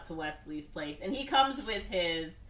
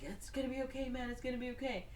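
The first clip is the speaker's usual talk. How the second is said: mock soothing; 6 semitones higher, 8 dB quieter, faster than usual. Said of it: "He's like".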